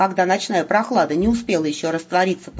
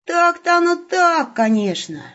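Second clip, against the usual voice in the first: sighing; 11 semitones higher than usual. A narrator's reading. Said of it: "вздохнул Серый".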